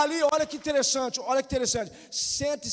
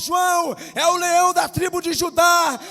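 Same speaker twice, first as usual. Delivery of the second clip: shouted, higher proclamation; elder's shout; 8 semitones higher, 12 dB louder than usual. Acted. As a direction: cry it out with full force.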